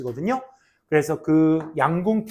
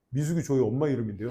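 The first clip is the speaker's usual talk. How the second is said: student's retort; 7 semitones lower, 7 dB quieter, faster than usual. Retold or imitated. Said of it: "딱 이래가지고".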